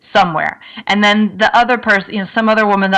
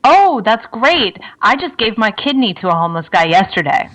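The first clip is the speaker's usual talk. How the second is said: mock one-upping brag. Bragging to a homeless volunteer, smugly. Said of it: "So, like, you know, something like".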